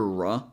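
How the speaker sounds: "r" as a short ruh; R plus schwa. Shown as a demonstration. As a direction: clip it to a quick ruh. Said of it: "pronouncing in two different ways".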